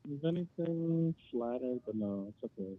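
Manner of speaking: far from the phone; quiet, off the mic; phone held away. Real, not acted. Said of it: "Could you talk into the phone? You're really quiet".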